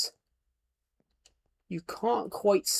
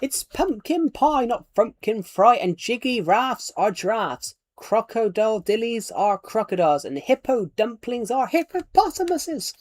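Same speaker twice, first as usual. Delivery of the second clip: reciting the giant's line; 7 semitones higher than usual. Retold or imitated. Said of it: "let me find the full line".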